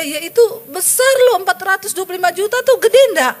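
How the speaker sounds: excited. Real, not acted. Stressing how big the sum was.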